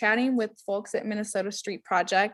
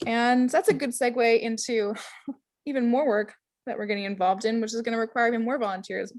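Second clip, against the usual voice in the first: mouth full; 2 semitones higher than usual. Real, not acted. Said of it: "Sorry, I have something in my mouth".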